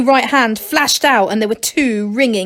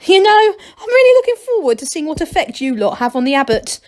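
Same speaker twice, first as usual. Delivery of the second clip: high, loud laughing voice; 7 semitones higher, 4 dB louder than usual. A narrator's reading. Dorcas laughing, telling the gnomes about the abbot. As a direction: still giggling as he speaks. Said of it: "He laughed".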